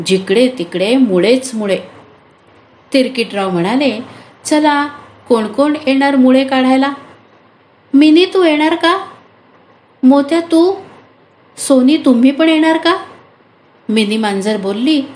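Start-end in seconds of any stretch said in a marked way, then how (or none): 4.4-13.0 raised, higher calling voice of the farmer; calling out to the animals. Acted. Farmer calls his animals to come help, eager raised call. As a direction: call everyone over to come pull radishes.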